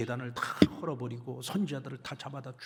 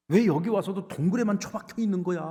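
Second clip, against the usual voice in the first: high, loud scolding question; God scolding Elijah in the cave, loud and high; rebuking question; 7 semitones higher, 5 dB louder than usual. Acted. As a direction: demand why he still hides.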